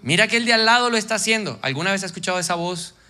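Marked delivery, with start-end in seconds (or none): 0.0-1.6 tempting voice of the flesh. Acted. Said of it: "la voz de la carne y te va a decir".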